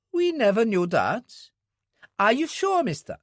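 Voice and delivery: the worried wife asks after Jenny; Mary, worried wife. Acted. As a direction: voice a worried mother figure asking. Voices Mary, surprised.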